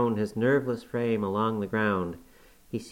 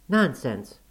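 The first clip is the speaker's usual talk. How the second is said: higher, louder scornful outburst; angry cry; 4 semitones higher, 4 dB louder than usual. A narrator's reading. Catherine scorning her cowering cousin, angry cry. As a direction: snap it out in a passion. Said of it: "cried Catherine in a passion".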